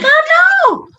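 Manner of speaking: high, playful "I know"; squeaky teasing agreement; smug agreement. Retold or imitated. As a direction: agree with comic self-satisfaction. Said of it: "I'm like".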